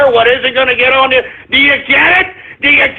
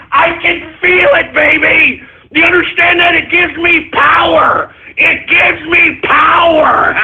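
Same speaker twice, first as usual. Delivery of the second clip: villain gloat; 3 semitones higher than usual. Acted. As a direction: relish the power, drag it out. Gloating at trolls.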